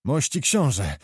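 lightly voiced old man pleading; a touch of an old soldier's begging; gentle mock plea to the prince. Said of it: "błagał stary Stankiewicz".

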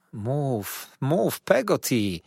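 slow, begging repeat; begging Peggotty to speak; pleading. Acted. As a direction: plead with her to tell. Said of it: "błagałem".

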